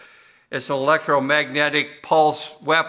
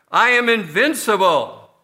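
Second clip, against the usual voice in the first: villain boast; 5 semitones higher, 4 dB louder than usual. Retold or imitated.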